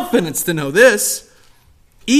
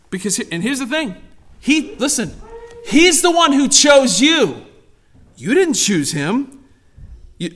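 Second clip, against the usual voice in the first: ordinary talk, nothing marked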